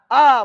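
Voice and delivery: आ stretched and going up; rising long vowel. Shown as a demonstration. Teacher to class, a rising long vowel. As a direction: draw आ out and lift it. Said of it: "ऊपर जा रहा है".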